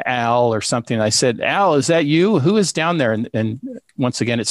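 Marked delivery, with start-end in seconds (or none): 1.4-3.1 higher-pitched call down the stairs; retold calling out. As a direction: imitate calling to someone downstairs. Calls down the stairs at noises.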